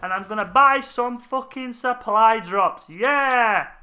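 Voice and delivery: high, hammed-up excited gamer voice; hyped-up gamer bro. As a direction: ham it up like an eager fan. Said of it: "No one thinks".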